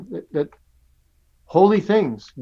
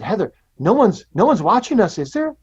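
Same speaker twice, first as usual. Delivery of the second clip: put-on sneaky child; 5 semitones higher than usual. Sneaking a cookie.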